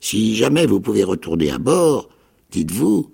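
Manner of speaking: high, mock-astonished repeat; feigned surprise. A narrator's reading. Castaway feigns surprise at the boy's words, high. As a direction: pretend to be amazed. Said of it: "une feinte surprise".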